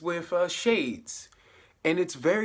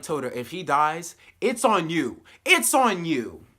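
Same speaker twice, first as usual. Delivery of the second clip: accusing; 4 semitones higher, 5 dB louder than usual. Retold or imitated. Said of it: "And I was so mad".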